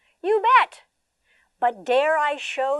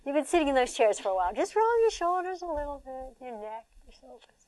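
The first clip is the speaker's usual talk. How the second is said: gentle instruction; 3 semitones higher than usual. Real, not acted. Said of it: "I'm a Tai Chi teacher".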